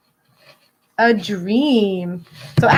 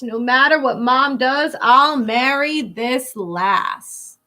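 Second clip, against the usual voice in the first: put-on lilting read-aloud for kids; storybook reading. Teacher reading a rhyming picture book to children, lilting. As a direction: read the rhyme to a class.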